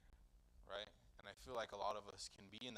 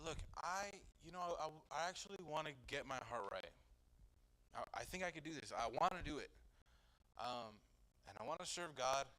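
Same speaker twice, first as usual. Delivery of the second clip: attitude; 3 semitones higher, faster than usual. Retold or imitated. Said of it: "The attitude".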